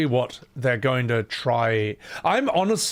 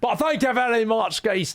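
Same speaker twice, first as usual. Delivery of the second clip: put-on higher, hammy Scottish accent thanking the chat; bad Scottish accent; 10 semitones higher than usual. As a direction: keep the jokey Scottish accent going. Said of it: "That's just a really shit Scottish".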